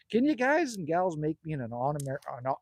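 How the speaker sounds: tripping over the words, restarting; stuttering. Real, not acted. To the chat, stuttering as he tries to ask. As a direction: stumble and restart mid-sentence. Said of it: "you're stuttering".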